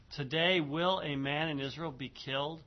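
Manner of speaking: verse read as a question, rising on KILLED; question tune. Shown as a demonstration. Teacher showing students the verse is a question, rising tune to KILLED. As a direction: lift KILLED at the end as a question. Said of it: "it comes in the form of a question".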